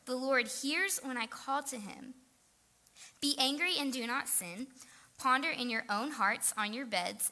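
measured, earnest reading aloud; deliberate public Bible reading; scripture reading. A narrator's reading. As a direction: read the psalm out to a congregation, phrase by phrase. Reads a psalm aloud.

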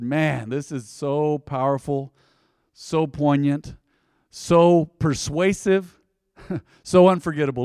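each phrase slow and drawn out; slow savoring. Real, not acted. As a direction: savor every word of it. Savoring the text, slowed.

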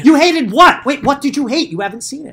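high, incredulous challenge through a laugh. Real, not acted. Co-host challenging a hater who hasn't seen it, incredulous.

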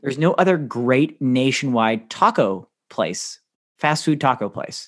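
slow, weighted line leaning on "great" and "nationwide"; slow emphatic delivery; emphatic slow phrase. Shown as a demonstration. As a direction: spell the point out slowly word by word. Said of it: "and I emphasize the word great".

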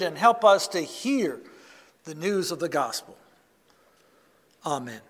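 a hushed, reverent opening prayer. Acted. Preacher praying over the words he is about to share, reverent. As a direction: pray it simply before the sermon.

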